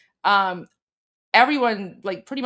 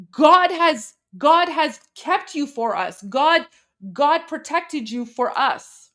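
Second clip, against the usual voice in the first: higher, louder, slow blessing; imitating fervent grandmother; 5 semitones higher, 4 dB louder, slower than usual. Translating grandmother's blessing to Trump, higher and slower. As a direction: bless him like a devout grandmother, slow and raised. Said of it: "And then she says".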